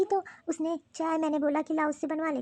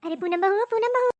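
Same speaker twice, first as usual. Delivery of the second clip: calling out; 4 semitones higher, 4 dB louder than usual. Acted. Mother-in-law calling her daughter-in-law from another room, loud call. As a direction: call the name out across the house, rising.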